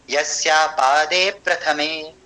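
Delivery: slow, measured Sanskrit recitation; slow chanted Sanskrit verse; metrical recitation. Shown as a demonstration. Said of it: "लय समझ में आई".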